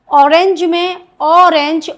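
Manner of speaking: ऑरेंज said slowly and clearly, stressing the opening O sound; slow teaching demo. Shown as a demonstration. Teacher slowly sounding out ऑरेंज for students. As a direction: draw out ऑरेंज so the vowel start is heard. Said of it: "ओ एक vowel sound है".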